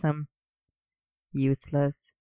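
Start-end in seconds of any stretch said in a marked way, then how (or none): 1.3-2.1 loving exasperation. Acted. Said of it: "he went on".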